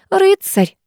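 high, admiring cry; gushing teacherly rapture; rapturous exclamation. A narrator's reading. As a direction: exclaim it with delighted admiration, pitch shooting up. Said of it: "воскликнула химичка".

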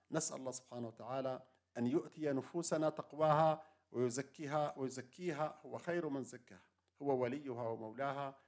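closing prayer. Real, not acted. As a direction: wind down gently into a humble prayer. Closing supplication of the talk. (دعاء ختامي بصوت أخفض)

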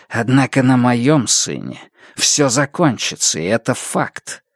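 lightly voiced grim zealot; коротышка-фанатик. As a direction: preach it, then lay down the verdict. (слегка проповедническая угроза)

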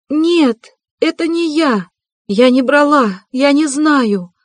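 очень высокий испуганный вопль; кричит, будто у неё рвётся сердце; отчаянный вопль. A narrator's reading. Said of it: "закричала она разрывающим сердце воплем". (Соня в ужасе оправдывается перед всеми)

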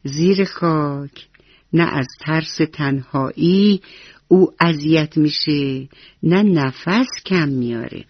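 slow tender comfort with a smile in the voice; kind reassurance. Acted. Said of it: "با مهربونی گفت".

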